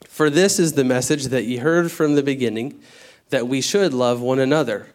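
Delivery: formal scripture read. Acted. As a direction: read the verses out with weight. Reads scripture aloud.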